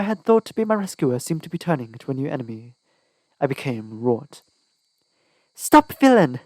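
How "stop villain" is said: high, loud furious cry; loud shout. A narrator's reading. Heroine shouting at her false rescuer, loud and high. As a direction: yell it with all her breath. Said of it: "I shouted as loudly as I could".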